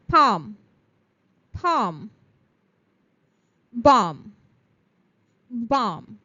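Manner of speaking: each word said twice, silent L and silent B dropped; "talk", "Almond", "Salmon", "York", "Palm", "Bomb" with the silent letters dropped; silent letters drill. Shown as a demonstration. Teacher drilling silent-letter words for students. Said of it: "L is silent".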